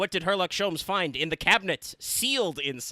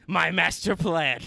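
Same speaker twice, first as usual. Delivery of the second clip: mock villain gloat; 3 semitones higher, 6 dB louder, slower than usual. Voicing cornered villain.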